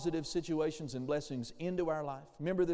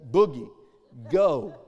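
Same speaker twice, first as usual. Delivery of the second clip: commanding shout; 4 semitones lower, 10 dB louder, slower than usual. Retold or imitated. Centurion commanding sickness to leave.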